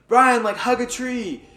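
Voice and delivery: high, loud calling out; retold yell. Fellow camper calls to lost child, yelling instructions. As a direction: yell it as if to someone out of sight. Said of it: "he just yells at me".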